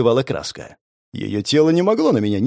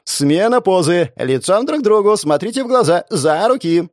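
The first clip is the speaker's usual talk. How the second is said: photographer giving directions; 5 semitones higher than usual. Acted.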